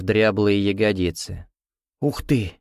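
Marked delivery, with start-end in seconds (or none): 2.0-2.5 gleeful little squeal; cheerful squeal. A narrator's reading. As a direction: squeal it out with delight. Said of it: "весело взвизгнула она".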